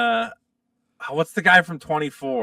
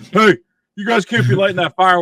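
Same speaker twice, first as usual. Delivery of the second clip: firefighter yelling; 3 semitones higher, 8 dB louder than usual. Retold or imitated. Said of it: "they're like".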